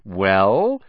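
put-on boy snapping at his friend to hurry up; impatient. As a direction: demand an answer now. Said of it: "said Malfoy impatiently".

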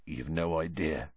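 hushed, soft and low; quiet. Acted. Hagrid quietly tells Hermione about Azkaban, soft and low. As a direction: say it almost under the breath. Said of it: "said Hagrid quietly".

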